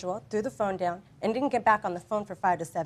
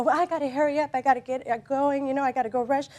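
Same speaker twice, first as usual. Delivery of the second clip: a touch frantic, pitched up; higher, hurried-sounding retelling; retold flustered hurry; 5 semitones higher, 3 dB louder than usual. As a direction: replay a mild rush of panic. Retelling her hurry to the store.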